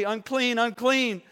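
a mock leper's warning call; calling out unclean. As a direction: cry it out like a leper warning the crowd. Leper calls out warning crowds.

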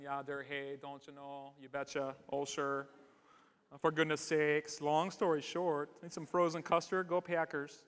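folksy Wisconsin small talk, pitched low; string out catchphrases in a mock Wisconsin accent. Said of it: "imitate Lindsay's family who lives up in Wisconsin".

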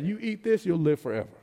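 hushed Jesus quote. Acted. Quoting Jesus, voice drops right down.

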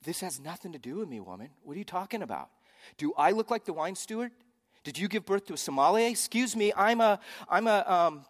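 indignant comic protest, pitch climbing; sarcastic. Acted. Preacher as Jesus refusing to be wine steward, sarcastic. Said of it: "sarcastically, we would translate it this way".

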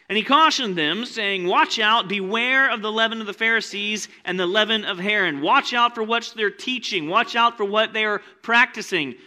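loud, high, driving preacher voice; preaching at full force. Acted. Pastor firing up the congregation, loud preaching. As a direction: preach it big and urgent.

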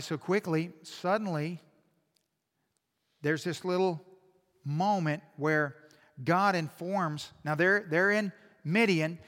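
ordinary delivery

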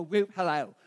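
imitating a silly whoop and hello; mock whoop. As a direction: punch it, then drop low on hello. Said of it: "And she's like, "Just don't go".

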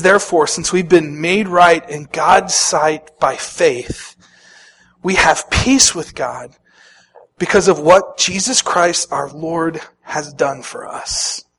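slow, measured Bible reading; scripture reading. Acted. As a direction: read it out slowly and deliberately. Reads scripture aloud.

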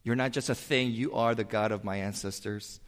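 ordinary talk

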